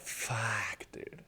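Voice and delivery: soft, whispered dread; hushed panic. Retold or imitated. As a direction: breathe it out caught red-handed. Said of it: "And I'm like".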